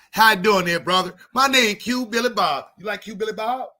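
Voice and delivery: lightly put-on country white guy. Comic introduces his white persona to friends, lightly put-on. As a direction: greet him like a friendly good ol' boy. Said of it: "I need a name for my white voice".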